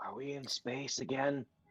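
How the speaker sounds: quiet, half-whispered speech. Half-whispering a question to Fike in character: half-whispering in character. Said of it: "I whisper to Fike and say".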